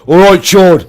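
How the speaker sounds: loud, high mock Brummie greeting; hammed-up Brummie accent, big and loud. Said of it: "with the Brummie accent going".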